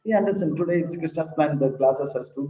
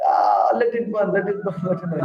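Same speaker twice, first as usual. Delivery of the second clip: laughing carelessly; 4 semitones higher than usual. Acted. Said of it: "He's laughing".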